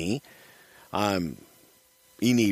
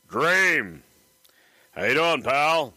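Dusty Rhodes impression; 6 semitones higher, slower than usual. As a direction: do your best Dusty Rhodes. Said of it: "conversation might have gone a little bit, you know, like this".

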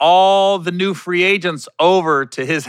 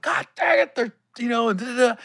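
mock Martin rant; 8 semitones higher, 4 dB quieter than usual. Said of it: "I'm like".

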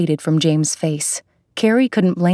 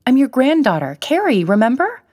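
higher, pleading reminder; 7 semitones higher, faster than usual. Acted. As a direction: reach him gently but urgently. Pleading with confused grandfather.

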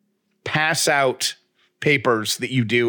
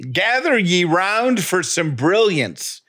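town crier; 6 semitones higher, slower than usual. Pretend. Mock proclamation on tree stump.

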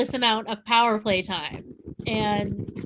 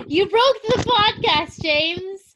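laughing; 7 semitones higher, 3 dB louder, slower than usual. Real, not acted. Teasing co-host who broke audio.

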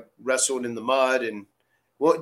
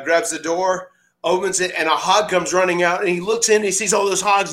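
ordinary delivery

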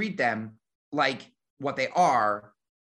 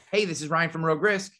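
upbeat friendly hello on the phone; friendly phone greeting; 3 semitones higher than usual. Shown as a demonstration. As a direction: greet a caller brightly. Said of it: "here's how I answer the phone".

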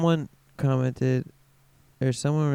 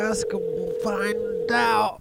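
slow, big announcer line; 6 semitones higher, slower than usual. Pretend. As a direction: boom it like a trailer voiceover. Dramatic show cliffhanger line.

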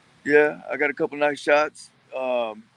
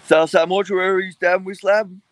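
mock ad slogan; 6 semitones higher, 7 dB louder than usual. Mock funeral home slogan.

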